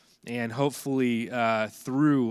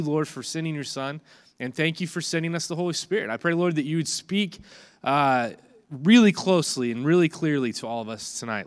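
prayer; 2 semitones higher than usual. Acted. Pastor leads opening prayer.

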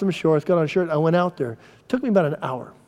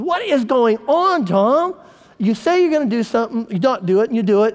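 mimicking wife; 7 semitones higher than usual. Husband imitating his wife's baffled scolding, high and mock-exasperated. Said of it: "She goes".

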